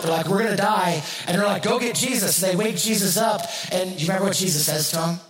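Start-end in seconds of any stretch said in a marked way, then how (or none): 0.3-1.0 higher, louder mock panic. Disciples in the boat during the storm, mock panic. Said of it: "the disciples are freaking out". 1.6-2.4 high-pitched, urgent mock alarm; mock panic. Disciples sending for Jesus in the storm, mock panic. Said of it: "the disciples are freaking out".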